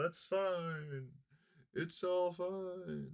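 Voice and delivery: sarcastic resignation. Pretend.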